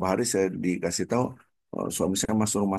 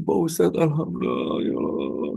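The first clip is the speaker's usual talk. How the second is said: tearful thanksgiving; 8 semitones higher than usual. Retold or imitated. Wife thanking the Ustadz, imitated tearful relief.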